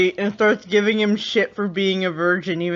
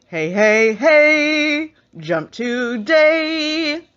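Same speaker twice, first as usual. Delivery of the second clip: coaxing Lucifer; 7 semitones higher, much slower than usual. Retold or imitated. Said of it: "Lucifer comes up behind her like".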